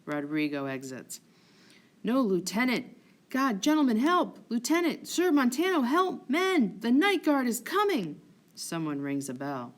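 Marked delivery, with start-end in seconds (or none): 2.0-8.2 loud panicked calls; shouting for help. Acted. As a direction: yell for help, high and loud. Calling for help in a brawl.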